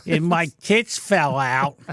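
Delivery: slow New York drawl; drawn-out New York vowels; New York accent. Acted. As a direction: finish the bit in slow Brooklynese. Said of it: "You're Brooklyn".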